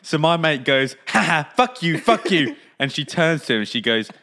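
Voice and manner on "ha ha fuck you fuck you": mock tic outburst, slightly raised; teasing mimicry of blurted swearing; mimicking Tourette's. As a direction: imitate a friend mockingly copying verbal tics. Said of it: "Are you mimicking my Tourette's".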